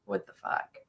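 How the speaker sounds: voiceless whispered disbelief; retold whisper. Remembering the shooting to friends, a stunned whisper. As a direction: breathe it out with no voice. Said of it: "I was just like".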